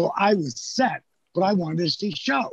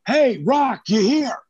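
calling out; 6 semitones higher, 3 dB louder, slower than usual. Retold or imitated. Big Show calls into locker room.

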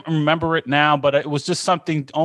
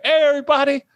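a friend's teasing yell; mocking yell; 13 semitones higher, faster than usual. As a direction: call him out across the room. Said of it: "he yells and he's like".

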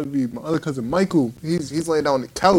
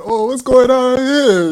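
stern adult; 9 semitones higher, 7 dB louder, slower than usual. Retold or imitated. Adult discovering the scene.

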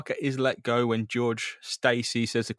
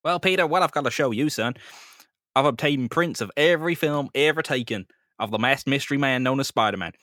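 Captain Stacy; 2 semitones higher, 3 dB louder than usual. Acted. Captain Stacy's slideshow speech.

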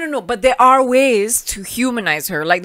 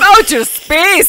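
put-on Scottish accent; 9 semitones higher, 7 dB louder, much slower than usual. Joining Scottish voice bit.

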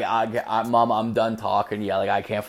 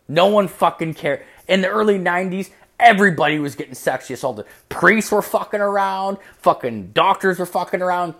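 higher-pitched, exasperated retold dad; worked-up rant; 7 semitones higher, 3 dB louder than usual. Dad brushing off his son's worries, worked-up rant. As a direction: rattle off a heated dismissal, pitched up.

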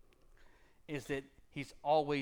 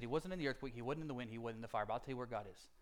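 calm knowing answer; 2 semitones lower, 5 dB quieter, faster than usual. Retold or imitated. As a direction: answer quietly like someone who knows. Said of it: "the prophet gives the answer".

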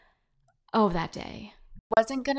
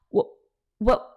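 stunned, halting "what"; speechless; 5 semitones higher, 4 dB louder than usual. Retold or imitated. Trainee hears the boss's account, speechless. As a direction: stammer it out in disbelief, with a gap. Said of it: "I was speechless".

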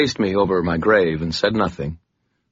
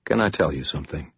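gentle; 4 dB quieter, faster than usual. Acted. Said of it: "his voice was very gentle".

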